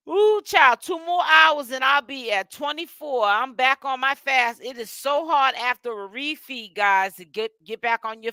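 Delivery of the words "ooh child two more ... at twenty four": excited exclaim. Real, not acted. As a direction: burst out proud of the fast. Excited fasting update.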